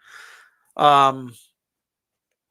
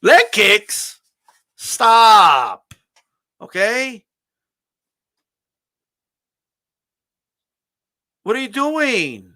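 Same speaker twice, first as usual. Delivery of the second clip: much higher and louder, fed up; exasperated outburst; 5 semitones higher, 3 dB louder, much slower than usual. Retold or imitated. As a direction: yell at the screen in disbelief. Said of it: "And I'm like".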